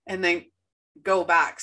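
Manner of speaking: hiccuping mid-sentence; hiccups. Real, not acted. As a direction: talk through a hiccup. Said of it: "So I have the hiccups".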